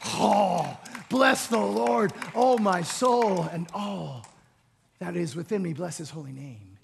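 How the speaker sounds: slow, fading, reverent prayer; hushed worship. Acted.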